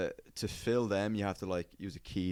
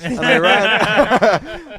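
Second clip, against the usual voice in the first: squealing, high laugh through the words; 13 semitones higher, 18 dB louder, much slower than usual. Real, not acted. Confessing the scam to friends, bursting into laughter. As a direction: crack up as you say it.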